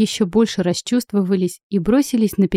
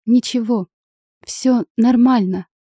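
сквозь слёзы; 3 semitones higher than usual. Acted. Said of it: "Сквозь слёзы улыбнулась я".

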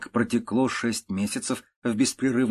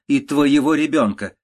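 louder, higher, insistent curse; irritated curse; 5 semitones higher, 6 dB louder than usual. A narrator's reading. Countess cursing her daughter's child, irritated. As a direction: raise the voice to extend the curse. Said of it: "повторила раздражённая графиня".

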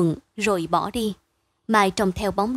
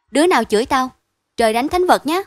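louder, higher, stern little vow; earnest oath, voice raised; solemn oath; 4 semitones higher, 7 dB louder, faster than usual. A narrator's reading. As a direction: swear it gravely and forcefully. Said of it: "Vinh nghiêm nét mặt".

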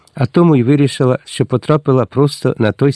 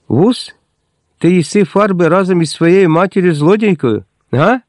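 angry attack; 6 semitones higher than usual. A narrator's reading. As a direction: lay into the servant girl. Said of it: "накинулась на неї Рухля".

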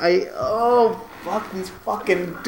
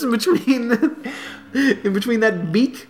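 laughing mock seductive; 6 semitones higher than usual. Hammed Slater line laughing.

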